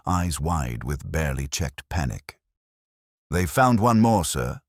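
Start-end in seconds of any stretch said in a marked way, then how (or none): 3.3-4.6 stammering. Acted. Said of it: "he stammered".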